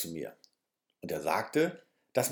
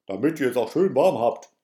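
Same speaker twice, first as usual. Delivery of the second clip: genuschelt; 6 dB louder than usual. A narrator's reading. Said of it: "nuschelte dazu".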